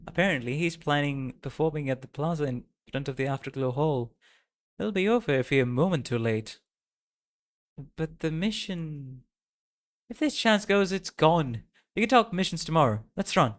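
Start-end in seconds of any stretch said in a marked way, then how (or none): 4.8-13.5 put-on raised, hurried girl's voice; urgent character voice. Friend pushing her to run, urgent character voice. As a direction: urge her to run, pitched up. Reads game character's lines.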